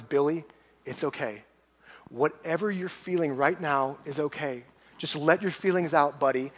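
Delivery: put-on gently calm an upset child, understated; soothing mom. Mom to upset Billy in a retold scene, mildly soothing.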